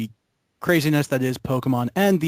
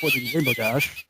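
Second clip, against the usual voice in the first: excited shout. Real, not acted.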